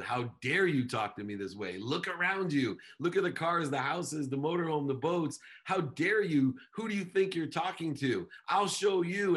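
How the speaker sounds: indignant, rising to a shout; furious, proud and high-pitched; angry. Retold or imitated. Angry retort to his wife.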